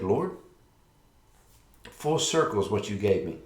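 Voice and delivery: ordinary talk, nothing marked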